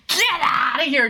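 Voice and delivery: playful get out yell; mock shout. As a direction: shout it as a joke. Mock dismissal of gifters.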